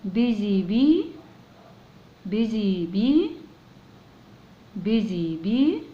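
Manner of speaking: slow and drawn out; slow, clear teacher demo; repeat-after-me model. Shown as a demonstration. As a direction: say it slowly for the child to copy. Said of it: "ممكن تقول ورايا".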